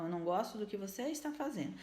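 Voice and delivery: firm but gentle, no blame on her; calm correction. Shown as a demonstration. Mother calmly telling her child what she dislikes, softly. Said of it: "Então".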